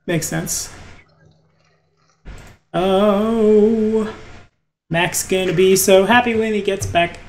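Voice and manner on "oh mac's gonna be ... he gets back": sarcastic. Real, not acted. Game master on the absent player's return, sarcastic. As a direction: lay on mild sarcasm, slightly lifted. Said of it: "The sarcasm".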